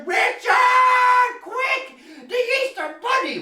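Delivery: high, breathless alarm; high, urgent kid calling for help; urgent child. Acted. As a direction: rush it out like a panicking boy. Boy runs for help.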